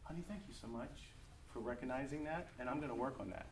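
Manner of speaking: soft, humble mock reply; humble thanks, gently offered; humbly. Husband humbly answering his wife's criticism, softly. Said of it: "I could have humbly said".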